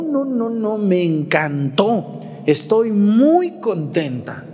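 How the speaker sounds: slow, gushing retreat enthusiasm; gushing excited churchgoer. Retold or imitated. A parishioner back from a retreat, gushing excitedly to her brother. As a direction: imitate a woman raving about her retreat. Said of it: "llegan a su casa bien emocionados".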